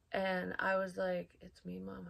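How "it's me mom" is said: put-on very soft echo of a little child; little tiny kid voice. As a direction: quote the tiny voice, hushed. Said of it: "this little tiny voice, like a little kid".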